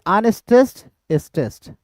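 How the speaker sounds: अनस्ट्रेस्ड lifted, स्ट्रेस्ड falling away; alternating beat demo. Shown as a demonstration. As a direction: chant the pair up, then down. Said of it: "ये हो गया अनस्ट्रेस". (अनस्ट्रेस्ड चढ़ता, स्ट्रेस्ड उतरता)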